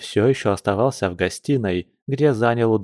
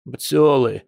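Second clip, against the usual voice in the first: a touch of sullen grumble; grumbled answer; 3 semitones higher than usual. Acted. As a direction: grumble out the one word. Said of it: "буркнул Яр".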